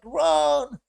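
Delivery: high shouted run; mock panicked yell; retold scream. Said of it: "She was screaming off the window".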